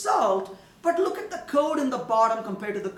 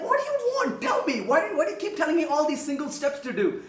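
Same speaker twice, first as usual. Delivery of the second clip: exasperated; 3 semitones higher, faster than usual. Acted. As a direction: act out an annoyed human being micromanaged. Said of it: "you'll get angry".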